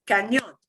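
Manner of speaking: Cañón with the final -ñón punched harder; stress on accented syllable. Shown as a demonstration. Teacher shows what the accent mark means, punching the end of Cañón. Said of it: "punch that syllable harder".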